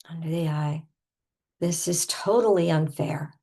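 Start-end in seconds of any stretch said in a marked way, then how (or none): 1.6-3.3 emphatic pretend protest; acted exasperation; over-the-top indignation. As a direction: punch the complaint as if aggrieved. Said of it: "we're gonna go over the top".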